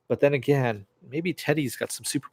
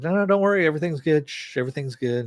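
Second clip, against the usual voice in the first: reassuring; 5 semitones higher, faster than usual. Retold or imitated. Villain soothing a baby.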